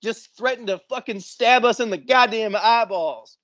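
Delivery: outraged report, pitched high; high, agitated explanation with swearing punched; retold outrage. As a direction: act out indignantly reporting a threat. Retold complaint to onlookers.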